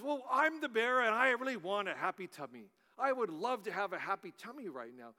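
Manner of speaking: coaxing bear, lightly British; British accent. Acted. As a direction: make a friendly pitch in a hint of British accent. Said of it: "in a British voice".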